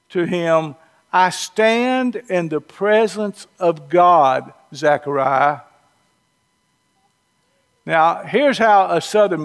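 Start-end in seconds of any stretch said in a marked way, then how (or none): 1.1-5.6 slow, measured, formal reading of the verse; solemn scripture reading. Retold or imitated. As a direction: read "I stand in the presence of God" slowly and solemnly, weight on "stand". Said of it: "Gabriel responds to Zechariah by saying".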